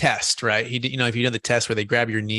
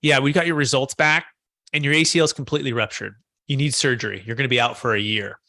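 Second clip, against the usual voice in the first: deadpan retold bad news; imitating a doctor's emotionless report, sinking at the end; zero emotion. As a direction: deliver the diagnosis with no feeling at all. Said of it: "just zero emotion".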